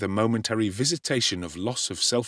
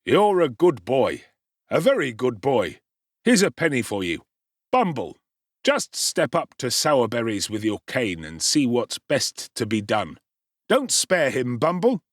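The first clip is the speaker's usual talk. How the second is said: benign gentleman; 3 dB louder than usual. Acted. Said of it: "smiling benignly and patting Noah's head".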